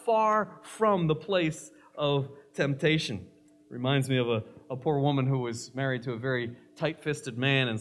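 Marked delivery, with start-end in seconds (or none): 0.0-3.3 loud, high, fervent plea to the Lord; earnest prayer. Shown as a demonstration. Preacher shows the right prayer, loud and fervent. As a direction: plead it out with force.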